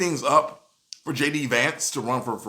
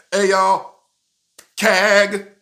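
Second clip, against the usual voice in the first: mock cheer; 6 semitones higher, 7 dB louder, much slower than usual. Mock slogan cheer again.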